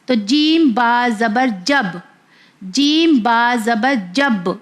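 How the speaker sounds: slow spelling, جب with a bounced final b; جب closed with a small echoing b; qalqalah on جب. Shown as a demonstration. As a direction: make the b of جب sound twice. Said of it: "با کا sound دو بار آیا".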